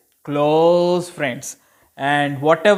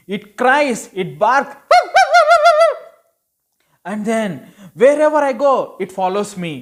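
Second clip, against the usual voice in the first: higher, louder complaining mother; exasperated mom; 5 semitones higher, 3 dB louder than usual. Acted. Storyteller voicing the mom who refuses to keep the puppy, exasperated. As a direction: list every gripe about the puppy like a fed-up mom.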